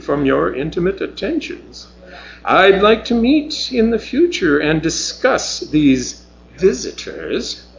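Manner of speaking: a coy scolding that turns cool; sharp reproach. Acted. Mavis rebukes Bronson in sharp reproach. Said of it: "delivered in sharp reproach".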